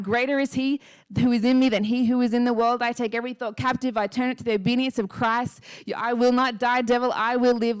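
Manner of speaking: retold defiant declaration, half-shouted; forceful speaking out. Woman retelling her stand against darkness, firm declaration. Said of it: "as I continued to speak it out".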